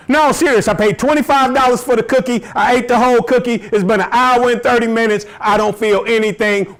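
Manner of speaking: high, worked-up comic rant; mock-outraged tirade, easing as it goes; indignant complaint. Acts out edible buyer's complaint.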